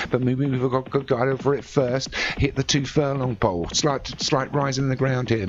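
running call that builds towards the finish; race commentary. Acted. Commentator calling the race home to listeners, rising play-by-play. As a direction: ride the race with your voice, lifting late.

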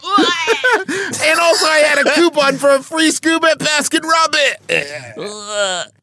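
high slow laughing wail; laughing dying wail. Pretend. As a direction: wail it, cracking up.

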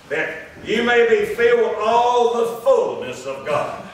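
slow, measured declamation from the pulpit; scripture read aloud. Real, not acted. Preacher reading Saint John to the congregation, slow declamation. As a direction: sustain each phrase as solemn Bible reading.

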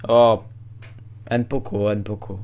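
Spanish accent. Shown as a demonstration. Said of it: "L'espagnol, c'est magique".

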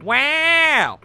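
high, drawn-out amazement; gushing hostess. Acted. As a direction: gush over the big spender. Hostess impressed by big order.

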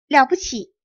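loud delighted exclamation; excited cry. Acted. Wife crying out in wonder at the tiny people. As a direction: burst out in amazement. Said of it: "不禁大声喊道".

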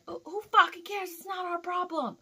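high, loud, dismissive yell; retold exasperated outburst. Driver dismisses coworker's looting warning, exasperated yelling. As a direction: act out angrily washing your hands of it.

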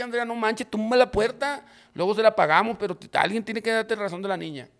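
high-pitched exasperated pleading; frantic urging. Retold or imitated. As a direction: re-enact a panicked demand down the phone. Frantic retold order to wife.

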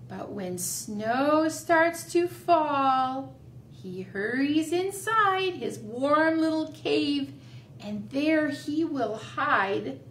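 slow, drawn-out rhyme recital; finger-play rhyme. Shown as a demonstration. Teacher showing children a bear finger play, slow recital.

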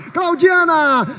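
shouted goal call, slow and drawn out; long goal yell. Real, not acted. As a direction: hold the goal cry, then name the scorer. Goal scored, radio narrator.

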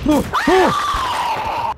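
excited shout. Real, not acted. Tense game moment.

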